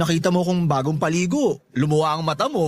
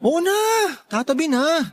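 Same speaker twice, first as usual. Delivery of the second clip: exasperated giving in; 10 semitones higher than usual. Acted. Giving in, stepping aside.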